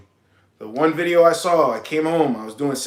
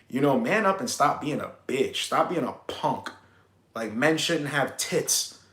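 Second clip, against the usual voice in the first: Wes Watson; 3 dB quieter than usual. Retold or imitated. Motivator telling men to toughen up, lightly imitated tough talk. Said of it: "yo, that's how he talks".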